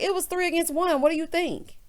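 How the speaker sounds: high-pitched retold grievance; imitated complaint. Upset wife answering her husband, high imitated complaint.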